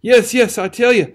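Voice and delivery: high, loud insistent protest; frantic protest. A narrator's reading. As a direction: swear it over and over, choked. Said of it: "protested the youth".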